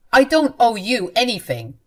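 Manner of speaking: cold retort. Acted. Mother-in-law retorts.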